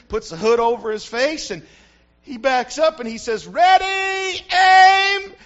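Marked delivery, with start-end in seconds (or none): 3.5-5.3 shouted high, loud firing-squad order; general's command. Retold or imitated. General yelling at his firing squad, loud shout.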